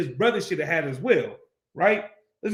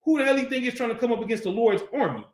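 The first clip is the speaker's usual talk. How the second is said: David's indignant challenge; 4 semitones higher than usual. Acted. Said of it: "'cause David come out like".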